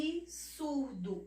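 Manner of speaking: absurdo slowed as "a-bi-surdo"; "Absurdo" in syllables, i after the b. Shown as a demonstration. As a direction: stretch Absurdo with a clear "bi". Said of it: "como se ela tivesse um I".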